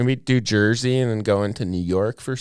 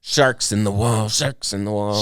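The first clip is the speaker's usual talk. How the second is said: light Boston accent. Shown as a demonstration. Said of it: "I'm doing a Boston accent".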